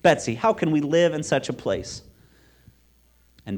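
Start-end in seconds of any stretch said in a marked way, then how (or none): 0.0-2.0 high, loud, distressed plea; wailing complaint. A narrator's reading. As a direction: wail to your sister in dismay. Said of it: "I wailed".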